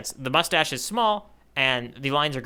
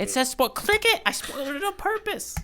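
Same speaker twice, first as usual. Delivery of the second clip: excited urging; 10 semitones higher than usual. Real, not acted. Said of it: "urging him to click".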